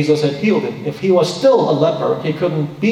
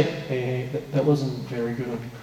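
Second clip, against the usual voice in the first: mild rebuke; 5 semitones lower, 9 dB quieter than usual. Retold or imitated. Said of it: "They didn't just say".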